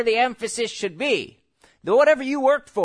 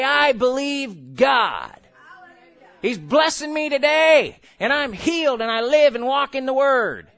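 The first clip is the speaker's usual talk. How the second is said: bold declaration; 2 semitones higher, 3 dB louder than usual. Shown as a demonstration. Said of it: "lift your hands and say".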